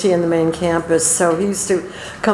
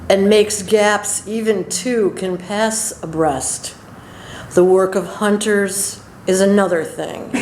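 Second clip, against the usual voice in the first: slow, measured poetry reading; unhurried recital of a poem; poem recitation; slower than usual. Acted. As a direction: read the verse deliberately, pausing after each line. Reads Frost poem aloud.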